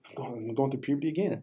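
cracking, breaking voice. Real, not acted. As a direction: voice breaks like puberty. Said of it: "my voice keeps cracking".

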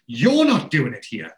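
loud, high protest with a laugh in it; mock outburst. The speaker loudly forbidding Wayne, laughing through it. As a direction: bluster it out laughing.

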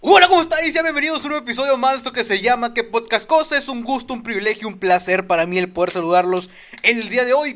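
podcast host intro. Acted. Host opening a new episode with an announcer greeting.

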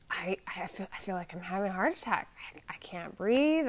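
breathless, frightened whispering; panicked whisper. Retold or imitated. Telling how she felt during the panic attack, panicked whisper. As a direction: whisper it like you can't get air.

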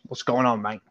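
amateur British accent impression. Podcaster proving impressions to co-host, British accent. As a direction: put on a matey British accent. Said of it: "I can do British".

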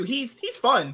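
normal talking voice

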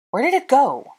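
high, frantic questioning; gasped panic. A narrator's reading. Hermione searching for the thrown wand, gasped panic. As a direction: cry out in high alarm. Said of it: "she gasped".

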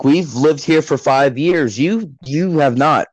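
slow, emphatic retold complaint; mock self-important neighbour. Neighbours claiming the road, mock haughty. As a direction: imitate pulling rank on teens.

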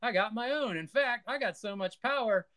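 high, fast, gloating villain; gloating evil emperor. Retold or imitated. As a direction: crow over your new power. Emperor gloats in retold scene.

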